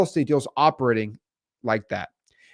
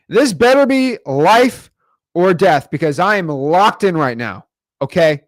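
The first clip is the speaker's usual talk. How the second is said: irritated; 4 dB louder than usual. Retold or imitated. Retelling his phone interrupting his show, mock-annoyed and slow. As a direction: stretch out the threat like a grumpy binge-watcher. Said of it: "I'm mad".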